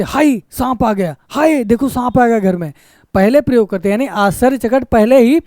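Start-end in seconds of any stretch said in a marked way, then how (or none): 0.0-2.7 mild dismay. Shown as a demonstration.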